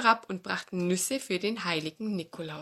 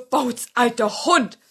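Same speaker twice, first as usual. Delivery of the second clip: slow, louder fox greeting Bauz, alter Hund; sly old fox; 5 semitones higher, 10 dB louder, slower than usual. Acted. Fox greets the old dog, slow fox voice.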